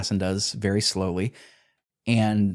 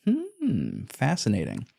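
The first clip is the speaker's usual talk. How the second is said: mock pondering; 3 semitones higher, 4 dB quieter, slower than usual. Host musing on murder rules with mock wonder. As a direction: play the bemused scholar.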